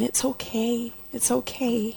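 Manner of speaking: soft, hushed reassurance; tender whisper. Retold or imitated. Jesus comforts her, whispering tenderly.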